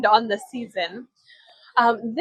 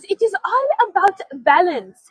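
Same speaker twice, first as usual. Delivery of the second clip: retold reply; 6 semitones higher, 4 dB louder than usual. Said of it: "she goes".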